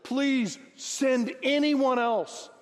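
high, slow begging plea; pleading Moses. Retold or imitated. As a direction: stretch it out, begging God to pick someone else. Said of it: "But Moses again pleaded".

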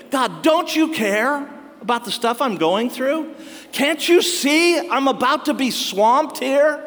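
lament to God. Retold or imitated. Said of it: "the universal line all human beings have been throwing at God".

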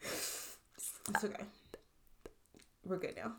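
very soft, near-whispered comfort; small, whispery voice, settling down; hushed reassurance. Real, not acted. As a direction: murmur it while collecting yourself after tears. Tearful friend settles herself, reassuring.

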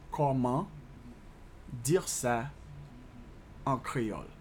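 "Comment", "dire ça", "en créole" with long pauses; measured dictation, pausing after each chunk; slow breakdown. Shown as a demonstration. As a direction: piece by piece for learners. Teacher breaks French question down.

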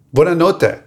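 laughing through a mock Italian goodnight; giggling at the wrong language. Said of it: "wrong language".

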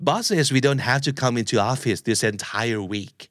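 slow, carefully spaced lesson line; slow model read. Shown as a demonstration. Teacher reads the sample line slowly for learners to repeat. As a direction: say "Boss says we don't have to come into office this entire week." very slowly, word by word. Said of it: "พูดตามกันอีกรอบหนึ่งนะครับ".

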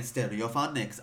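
Welsh warm-up word; key word to get into Welsh; Welsh accent. Shown as a demonstration. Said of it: "do the Welsh accent".

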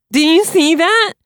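high, slow, strangled with rage; choking with passion. A narrator's reading. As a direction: choke the words out in fury. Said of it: "in a voice choking with passion".

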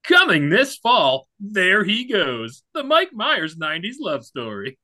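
slow, big trailer announcer; movie announcer voice. Shown as a demonstration. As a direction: boom it like a trailer. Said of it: "my movie announcer voice".

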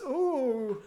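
a short high "Ooh" in a put-on African accent; a lightly done African accent "Ooh"; mock African accent. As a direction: hoot it out in an exaggerated African accent. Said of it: "is that an African accent?".

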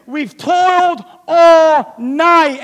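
drawn-out, loud complaint; weary shout. Acted. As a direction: cry it out slowly, worn out. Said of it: "He says this".

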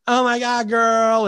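high, gushing camp squeal. Retold or imitated. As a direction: ham up a flamboyant gush. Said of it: "really playing up the gay stereotype".

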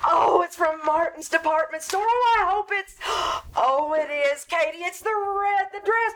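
thrilled discovery of the dress; eager delight; excited unwrapping. Acted. Liz unwraps her present.

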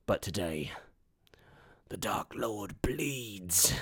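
soft, slow, halting voice; dying words. Acted. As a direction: eke out last words with long pauses. Dying warrior's last words.

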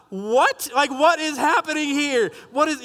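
mock-bewildered questioning; baffled disbelief. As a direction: react as if nothing makes sense. His shocked thought, retold.

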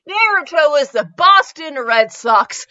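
laughing through the joke. Real, not acted. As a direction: say it while laughing. Joking line, laughing.

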